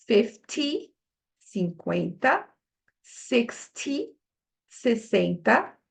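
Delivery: English tens said slowly and clearly, Portuguese after each; slow deliberate English tens; clear number drill. Shown as a demonstration. Teacher drills the tens for the students, slow and clear. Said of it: "vamos primeiro falar as dezenas".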